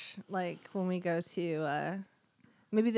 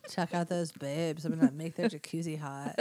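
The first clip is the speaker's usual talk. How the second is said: stoner devil; 3 semitones lower than usual. Pretend.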